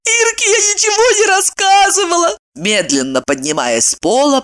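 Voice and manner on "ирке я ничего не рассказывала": higher, moaning protest; moaned. A narrator's reading. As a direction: groan it out rising from the floor. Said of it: "простонала она".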